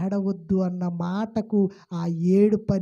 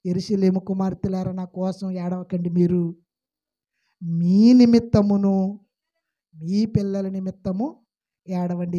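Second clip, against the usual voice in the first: solemn voice of Jesus; 4 dB louder, slower than usual. Acted. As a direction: speak as Jesus, calm and weighty. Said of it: "అని బాధపడాల్సింది పోయి".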